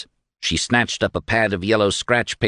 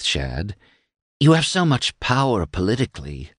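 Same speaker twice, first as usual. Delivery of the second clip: coy woman character, pitched higher; purring flattery; 6 semitones higher than usual. A narrator's reading. Flattering Shad about his power, a coy purr. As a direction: purr admiringly at a powerful man. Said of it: "she purred".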